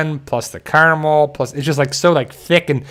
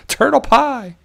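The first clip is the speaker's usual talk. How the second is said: high, slow, said through laughter; cracking up at the name turtle pie; laughing; 8 semitones higher, slower than usual. Real, not acted. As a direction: giggle the name out.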